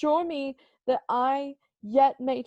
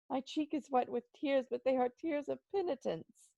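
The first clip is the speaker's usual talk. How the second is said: tearful hush; 3 semitones higher, 7 dB quieter than usual. Acted. Speaks of his tears.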